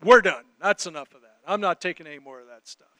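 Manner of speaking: mock fed-up outburst, loud start then dropping; retold upset. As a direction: imitate a coworker who has had enough. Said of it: "he finally gets upset enough".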